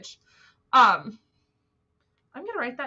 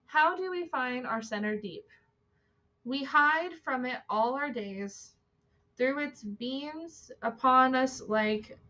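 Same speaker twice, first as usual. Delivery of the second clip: measured, lilting reading aloud; quote reading; 4 semitones higher than usual. Acted. Host reading a Celtic Spirit quote to viewers, quote reading. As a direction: read the verse out in long phrases.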